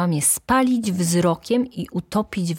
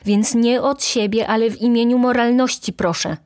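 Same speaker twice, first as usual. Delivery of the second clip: higher, louder righteous appeal; dramatic demand, raised voice; impassioned cry; 7 semitones higher, 5 dB louder than usual. A narrator's reading. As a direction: call out in moral indignation. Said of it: "zawołała, gestykulując rękoma".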